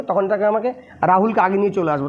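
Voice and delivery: ordinary talk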